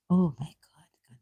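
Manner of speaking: a slow, breathless "oh my God"; stunned whisper. Real, not acted. Reading the verse alone and shocked, a slow whisper. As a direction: whisper it, stunned by what you found.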